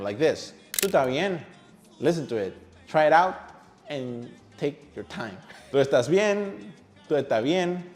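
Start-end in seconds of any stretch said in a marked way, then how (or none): 0.7-1.4 tú tá bien, run together as one; linked words in tú estás bien. Shown as a demonstration. Teacher showing how words connect, tú estás bien run together. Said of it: "almost without pause between them". 7.1-7.8 tú ehtá bien, softened S; S as H in estás. Shown as a demonstration. Teacher pointing out the shift, S as H in estás. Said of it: "Notice the S shifting to H".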